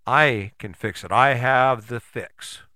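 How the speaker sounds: slow, weighty boast; self-proclaimed fixer. Acted. People running around claiming they can fix it, slow self-important boast. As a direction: announce it slowly, stressing your own importance. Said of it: "people who are running around going".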